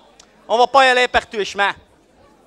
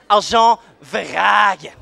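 proud bark; 4 dB louder, much slower than usual. Acted. Cop introduces himself.

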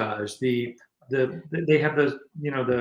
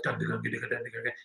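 soft imitated drumming and riffing; puny band noise; 8 dB quieter than usual. Musician mimicking his own outgunned band, softly chugged. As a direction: rattle off a small, quiet band sound. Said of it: "we sounded like nothing compared to them".

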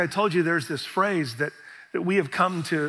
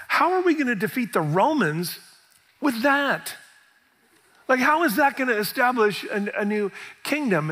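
doubting crowd; 5 semitones higher than usual. Retold or imitated.

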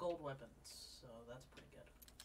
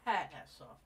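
laughing mimicry; 4 semitones higher, 5 dB louder than usual.

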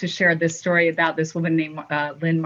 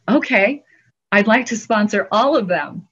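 excited; 3 semitones higher, 3 dB louder than usual. Retold or imitated. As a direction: announce it grandly. Generous donor's big reveal.

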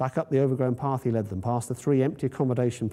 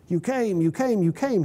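high, tearful joy; overjoyed; 9 semitones higher, 3 dB louder than usual. Acted. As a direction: greet them like long-lost friends. Lorenzini overjoyed, weeping, greeting.

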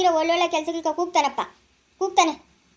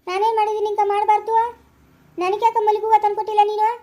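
higher, aggrieved protest; jealous complaint; 4 semitones higher than usual. Acted. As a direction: demand to know why you got none. Jealous complaint about flowers for another. (ಅಸೂಯೆಯ ದೂರಿನ ದನಿ)

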